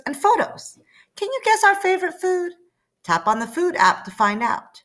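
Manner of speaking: put-on sweet app inviting the kid; app character.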